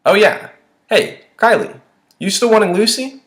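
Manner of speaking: high, loud call to a friend. A narrator's reading. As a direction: holler a question across the street. Calling over to a friend.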